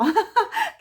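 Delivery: high, loud burst of laughter; real laugh. Real, not acted. Host laughing at her own romantic words, high loud laugh.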